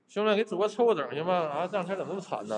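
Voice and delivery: high, quick wheedling plea; cute begging. Real, not acted. Streamer begging viewers to round up gifts, high quick wheedle.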